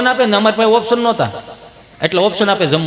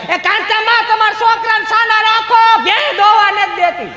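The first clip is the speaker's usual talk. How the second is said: very high, long-drawn holler; complaining neighbour; 14 semitones higher, slower than usual. Acted. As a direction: call across the houses in a hammed-up squeal. Neighbour calls out about crying children.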